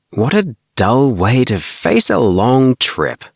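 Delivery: chirpy friend voice; cheerily. A narrator's reading. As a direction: tease him cheerfully about the trip. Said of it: "Tommy said cheerily".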